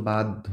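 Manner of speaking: "বাধ্য" said bad-dho; d before dh. Shown as a demonstration. Teacher shows the d coming first, "বাধ্য" as bad-dho. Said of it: "আগে দ আসতেছে".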